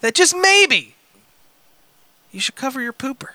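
deliberate storytelling delivery, rising then dropping away; dramatic letter reading. Acted. Reading a crude missed-connection letter to co-hosts, mock-dramatic. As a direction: read it out with mock-serious drama.

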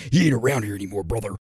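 lightly growled wrestler voice; swaggering wrestling promo aside; Randy Savage. Acted. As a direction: keep up the raspy wrestler act. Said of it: "you want a Randy Savage birthday shout out".

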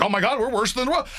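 fast, overdone fan moan; lightly mocking a panicked fan; mock despairing fan. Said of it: "you're like".

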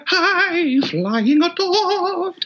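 high falsetto, slow. Retold or imitated. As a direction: float up into head voice. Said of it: "He's like".

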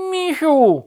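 high, loud call to a friend. A narrator's reading. Rabbit summons bear, calling high and loud. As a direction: call across the forest. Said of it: "zawołał królik".

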